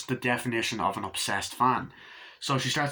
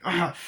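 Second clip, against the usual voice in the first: short, higher imitated cry of agony; mock pained cry; 6 semitones higher than usual. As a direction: grunt out pain as if crawling. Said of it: "the screams of fucking agony that he has".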